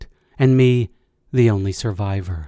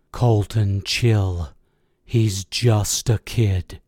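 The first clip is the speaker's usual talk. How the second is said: low, slow and steady; calming; 3 semitones lower, much slower than usual. A narrator's reading. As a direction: talk him down, slowly and lower. Squad leader calming a screaming soldier.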